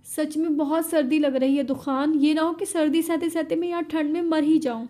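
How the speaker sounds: a last begging try, a touch of crying; tearful plea. Acted. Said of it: "रोते हुए आखिरी कोशिश करती है".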